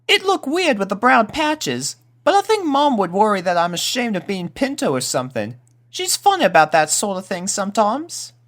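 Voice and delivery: put-on a kid unsure about his mom's feelings; uncertain colt Pip. Pip talks about his coat.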